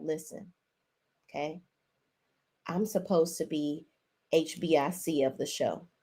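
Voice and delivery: low, hushed mock confidence; discreet aside. The speaker discreetly telling Miss Nell who leads, low and hushed. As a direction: drop the voice as if slipping someone a private word.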